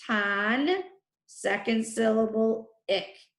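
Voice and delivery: "ton" and "ick" each set apart; split into syllables. Shown as a demonstration. Teacher naming each syllable of tonic, set apart. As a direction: pause before "ton" and before "ick". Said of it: "First syllable".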